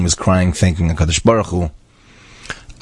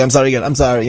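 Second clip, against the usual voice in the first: rote mock apology; 6 semitones higher, faster than usual.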